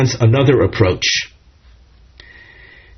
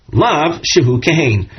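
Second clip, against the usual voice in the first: "love," lightly lifted, then settling; a touch of amazed disbelief; tone of wonderment; 2 semitones higher than usual. Shown as a demonstration. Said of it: "with a tone of wonderment".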